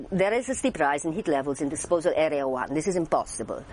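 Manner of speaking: vague mid-European accent; foreign accent. Shown as a demonstration. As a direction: put on an unplaceable foreign accent. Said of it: "can I do a foreign accent".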